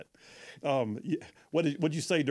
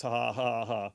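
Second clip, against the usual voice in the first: spoken ha-ha laugh, deliberately mechanical; read-out laugh; 3 semitones lower than usual. Retold or imitated. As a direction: read the typed laughter aloud. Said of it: "And then just laughs".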